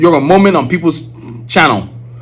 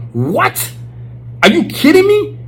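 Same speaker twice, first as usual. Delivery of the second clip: excited disbelief; 12 semitones higher, slower than usual. Real, not acted. Imagining Basquiat with YouTube.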